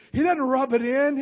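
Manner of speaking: "doesn't" hit high and loud; loud emphatic preaching. Shown as a demonstration. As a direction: proclaim it, punching "doesn't". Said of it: "No, no, no".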